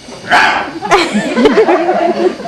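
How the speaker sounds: playful, wordless growl of desire; lustful growl. Acted. Husband driven crazy by perfume, lustful growl.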